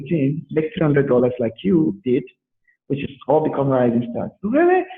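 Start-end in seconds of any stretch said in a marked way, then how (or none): 4.4-4.8 high squeak of disbelief; a sudden high-pitched really; surprised. Retold or imitated. Caller hears the offer, gasps a high really. Acted surprise in retold call.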